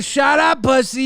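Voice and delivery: mock shout at partner. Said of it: "telling your significant other to".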